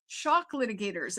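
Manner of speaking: lightly imitated Welsh accent, "shock litigators" with an open short vowel instead of "shark"; a hint of the lawyer's Welsh accent on "shock litigators". Retelling the Welsh lawyer's words in court, a light Welsh accent. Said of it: "his lovely Welsh accent".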